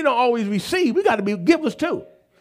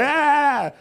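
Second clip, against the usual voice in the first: mock holler; 6 semitones higher than usual. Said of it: "he hollered".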